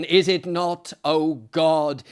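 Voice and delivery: loud anguished cry from the dead; despairing cry. Acted. The tumult of the dead cries out, loud despairing cry. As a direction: call out to God in despair.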